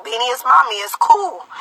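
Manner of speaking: put-on softly soothing, like a mother settling her child; imitating a calm, soft-spoken mom; calm reassurance. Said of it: "So I'm staying calm".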